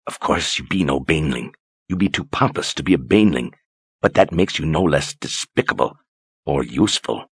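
cold and scornful, soft; contemptuous. Acted.

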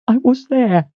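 high, a hint of breaking; broken voice. A narrator's reading. Head cook tells Richard she saw it, broken. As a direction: say it as if it hurts. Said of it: "she said in a broken voice".

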